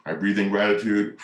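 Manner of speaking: calm meditative breathing; breathing mantra. Shown as a demonstration. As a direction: breathe in, then let it go. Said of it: "That's how I like to see it".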